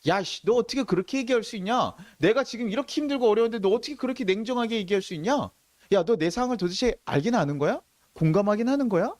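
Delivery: mildly heated, accusing comeback; acted angry retort. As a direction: act out someone snapping back at unwelcome advice. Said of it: "화를 내는 거예요".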